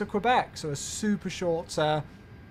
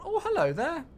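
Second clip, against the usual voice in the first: laughing hello; 10 semitones higher than usual. Real, not acted. Greeting a chat viewer.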